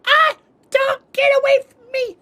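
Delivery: very high, loud shriek; mom shrieking. Retold or imitated. Mom shrieking at the dog to get away from her, very high and loud. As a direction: screech it like a panicked mom. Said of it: "she'd go".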